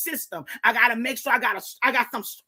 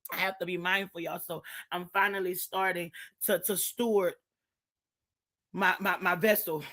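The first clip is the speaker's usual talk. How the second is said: much lower and softer, reined in; calming down; 6 semitones lower, 6 dB quieter than usual. Real, not acted. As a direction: pull the voice way down to spare it. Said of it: "I gotta calm myself down".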